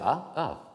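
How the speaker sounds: two quick AH glides, up then down. Shown as a demonstration. Lecturer showing glides at real speed, quick. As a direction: flick the pitch briefly on each AH. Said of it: "ça va plus vite".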